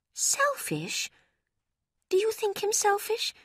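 put-on high, startled young woman; shocked disbelief. A narrator's reading. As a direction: question it in disbelief. Marianne shocked question.

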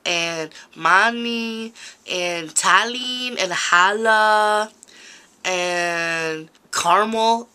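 put-on slow, drawn-out chola accent. Showing viewers her character Baby Smiley, chola voice. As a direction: lean into the Baby Smiley drawl. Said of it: "she always talks like this".

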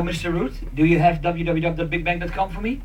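usual speaking voice

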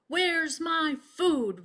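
roaring. A narrator's reading. Starvin' Marvin roaring at the crowd. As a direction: bellow for your food. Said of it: "roared Starvin' Marvin".

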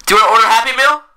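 exasperated cashier. Acted.

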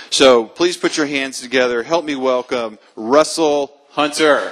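slowing build into the guest's name; announcer introduction. Real, not acted. Host asks the audience to help welcome the speaker, announcer introduction. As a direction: stretch out the name to bring on applause.

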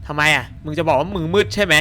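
usual speaking voice

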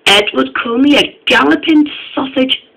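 high, loud outraged complaint; indignant splutter. A narrator's reading. Henry complaining of Edward's name-calling, indignant splutter. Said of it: "spluttered Henry".

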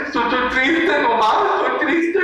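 high-pitched mopey whine; acted sadness. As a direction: play a sulky, sad child. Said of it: "¿Pero por qué estás triste?".

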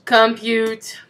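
robot voice. Pretend. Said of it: "Does not compute".

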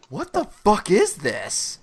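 drawn-out, slow disbelief; slow-motion bafflement; bewildered reaction. Retold or imitated. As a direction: stretch it out, slowly taking in something baffling. First reaction to the film.

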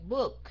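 "book" short, K just a puff of air; puffed ending. Shown as a demonstration. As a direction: say "book" quickly, only breathing out the K. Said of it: "chỉ đánh cái hơi ra thôi".

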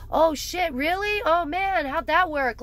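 mock fascination. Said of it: "mock interested reply".

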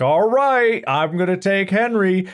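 playful owner-to-dog voice; teasing announcement. Retold or imitated. Owner calls out to her dog.

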